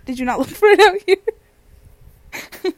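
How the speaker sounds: high, slow, breaking into laughter; laughing mock innocence. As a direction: crack up while acting out the excuse. Cracks up acting out excuse.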